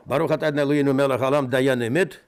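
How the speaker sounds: quick chanted prayer; brisk formal Hebrew blessing. Acted. Blessing over torn ribbon.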